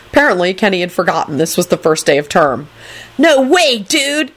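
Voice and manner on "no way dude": high-pitched acted protest; shriek. A narrator's reading. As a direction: shriek it in disbelief. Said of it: "he shrieked".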